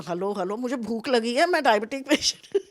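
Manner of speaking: mother stuck in a van calls out hungrily, loud mock call. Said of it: "मैं आवाज़ दे रही हूँ".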